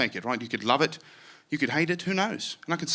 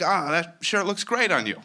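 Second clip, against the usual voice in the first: slow, lightly British compliment; a hint of English charm; understated British compliment; polite British compliment; 5 semitones higher than usual. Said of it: "I use this voice".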